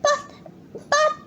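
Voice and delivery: halting, gasped stammer; gasped protest. A narrator's reading. Peter tries to object to his parents, halting gasp. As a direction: gasp each word separately, with a pause between. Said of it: "gasped Peter".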